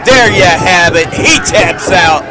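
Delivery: loud, slow win call; triumphant call. Real, not acted. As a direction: belt out the finish like a play-by-play man. Calling the submission win.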